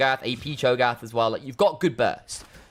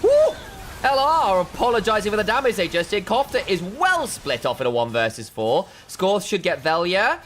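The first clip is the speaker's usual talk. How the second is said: higher-pitched esports commentary; live play-by-play; 5 semitones higher than usual. Real, not acted. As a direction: call the fight as it unfolds, pitch lifted.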